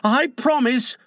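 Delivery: a touch of earnest loyalty. A narrator's reading. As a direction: pledge it earnestly to your leader. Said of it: "John said loyally".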